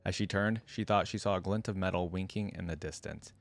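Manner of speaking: measured read-aloud storytelling; story narration. A narrator's reading. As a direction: narrate the tale evenly, with light character lines.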